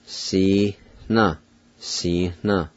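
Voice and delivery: "Si, na" with a light breath of H after the vowel, before the N; faint H sound. Shown as a demonstration. Teacher demonstrates the faint H, "Si, na" in slow separate syllables. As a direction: sound out "Si, na" slowly, a slight H between syllables. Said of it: "There's a faint H sound".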